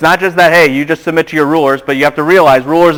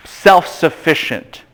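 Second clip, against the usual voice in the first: slow dictation; 3 dB quieter, slower than usual. Shown as a demonstration. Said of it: "just write this down".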